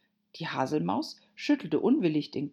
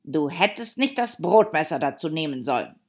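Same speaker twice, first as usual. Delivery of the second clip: louder, grumpy scolding; growled reproach; 6 dB louder than usual. Acted. Hatter blaming the bread knife, grumpy reproach. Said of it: "knurrte der Hutmacher".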